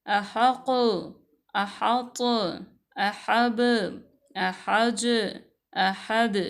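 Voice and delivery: अहक and अहब with the final letter bounced, a clear echo on the closing consonant; क़ाफ़ और बा को झटके से वाज़ेह; with qalqala echo. Shown as a demonstration. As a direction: end each word with a small jolt, the last letter popping clearly. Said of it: "एक दफ़ा फिर दोहराइए".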